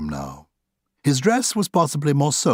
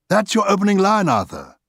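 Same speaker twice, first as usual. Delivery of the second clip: 1 Oscar; 9 semitones higher, 3 dB louder than usual. Acted. Oscar voiced by narrator.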